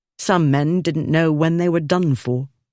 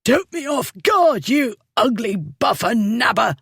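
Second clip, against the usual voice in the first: higher, winded gasping insult; gasped; 8 semitones higher than usual. Acted. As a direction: spit it out short of breath. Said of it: "the drunkard gasped".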